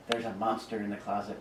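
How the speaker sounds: soft whisper. A narrator's reading. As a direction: whisper it scared. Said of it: "whispered Dagan".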